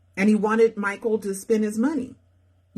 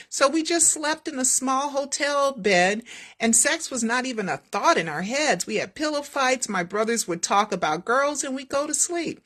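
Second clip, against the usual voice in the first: higher, light reminiscing voice; Michael's voice; 6 semitones higher than usual. Acted. Michael voiced in script reading.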